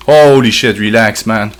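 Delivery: loud startled outburst on the first words; alarmed, telling it to back off; loud jolt of fright, then settling. Real, not acted. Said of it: "scaring me".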